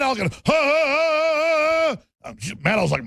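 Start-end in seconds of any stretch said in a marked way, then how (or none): 0.3-2.3 high cackling hyena laugh. Retold or imitated. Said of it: "you gotta do a hyena laugh".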